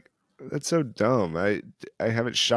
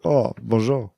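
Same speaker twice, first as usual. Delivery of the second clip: put-on French accent; slower than usual. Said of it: "you have a good French accent".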